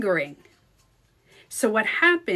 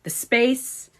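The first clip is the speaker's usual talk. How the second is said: lightly intoned meditation cue; a hint of mock guru; Joe Dispenza. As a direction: stretch it a little like a guide. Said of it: "you never know what he's gonna say".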